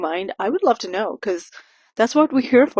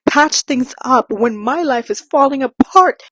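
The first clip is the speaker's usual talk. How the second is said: slow, higher and louder mock outrage; mocking dramatic heroine; 4 semitones higher, 5 dB louder than usual. Mocking the heroine's outburst at her parents, hammed-up melodrama. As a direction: ham up her self-pity. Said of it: "she's like".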